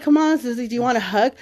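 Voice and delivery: playful plea to make up; coaxing. Retold or imitated. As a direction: imitate a parent coaxing a sulky kid. Parent coaxing sulking daughter, retold.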